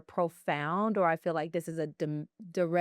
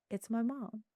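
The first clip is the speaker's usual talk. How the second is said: hushed realization; 4 semitones higher, 8 dB quieter than usual. Retold or imitated. Realizes butterfly is her mother.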